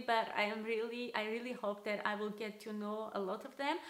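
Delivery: usual speaking voice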